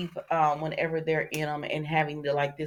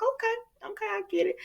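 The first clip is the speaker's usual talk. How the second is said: much higher, light resigned okay; mock brushed off; 4 dB quieter than usual. Eric accepting Jada's news, high mock resignation. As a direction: toss it off in a high put-on voice. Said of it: "he was like".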